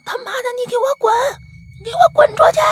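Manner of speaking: high, strained angry yell; high-pitched acted tirade; cursing. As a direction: imitate furious sleep-cursing, building to a shout. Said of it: "你一直骂人呢".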